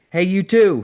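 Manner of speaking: phony, over-exaggerated call; high, loud put-on friendliness; Owen. A narrator's reading. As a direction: call out in an obviously fake, overdone way. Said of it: "in his phony, over-exaggerated way".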